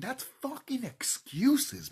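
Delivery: high, loud, dragged-out shout; slow angry yell. Real, not acted. Ranting at viewers, shouting slowly and loud.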